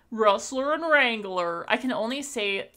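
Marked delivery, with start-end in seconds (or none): 0.1-1.7 slow, amateur Southern twang; attempted Southern accent. Shown as a demonstration. Streamer trying her best at skin names, rough Southern accent. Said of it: "I cannot do accents, but I'll do my best".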